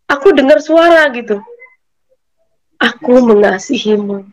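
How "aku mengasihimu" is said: gentle voice. Retold or imitated. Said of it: "Itu lembut banget".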